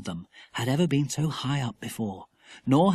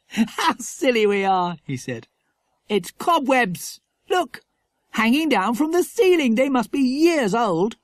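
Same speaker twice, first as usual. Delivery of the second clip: put-on higher, slow, relieved boy voice; 9 semitones higher, 5 dB louder than usual. A narrator's reading. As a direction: laugh off the fright, explaining.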